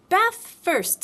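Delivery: cheerful mother announcing bathtime. A narrator's reading. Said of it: "said Kanga in a cheerful voice".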